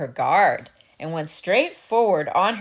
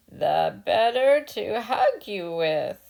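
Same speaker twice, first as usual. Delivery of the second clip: slow, amused, with a laugh; sly chuckle. Acted. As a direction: savour the lie with a chuckle. Wolf chuckling.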